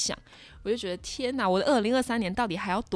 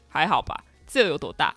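nurse dismissive, lower; 5 semitones lower, 5 dB louder than usual. Retold or imitated. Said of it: "她说".

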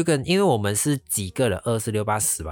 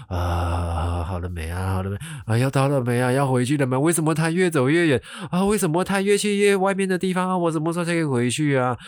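whiny complaining; 4 semitones higher than usual. Retold or imitated. Seasick, begging to go back.

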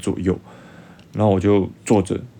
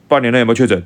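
imitating a gruff soldier, louder and higher; mock fierce question; 4 semitones higher, 5 dB louder, faster than usual. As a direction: bark the question like a stern guard. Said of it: "就是这么凶哦". (模仿士兵凶巴巴地大声问)

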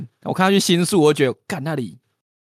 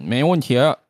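Beijing accent; 2 semitones higher, 4 dB louder than usual. Shown as a demonstration. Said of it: "那咱们用北京腔".

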